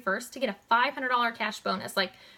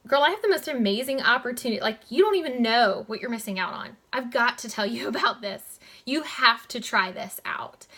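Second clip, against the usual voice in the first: eager, fast, louder gushing pitch; confident; 3 dB louder than usual. Shown as a demonstration. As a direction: sell it with bubbly confidence. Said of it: "you wanna be confident".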